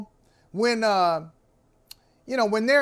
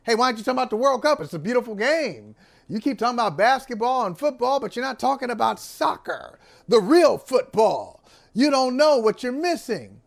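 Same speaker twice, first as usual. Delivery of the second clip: mock soccer fan. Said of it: "They say they want the support".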